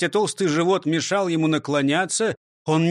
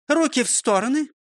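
high commanding call; 9 semitones higher than usual. Acted. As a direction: order the arms out. Teacher's drill command.

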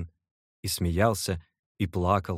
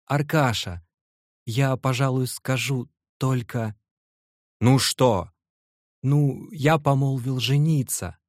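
higher, slow and weighty, over-solemn; self-important announcement; 6 semitones higher, 4 dB louder than usual. Acted. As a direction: announce it like grand news, slowly. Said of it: "стараясь всеми силами придать как можно более важности". (Вася торжественно и важно объявляет другу о помолвке)

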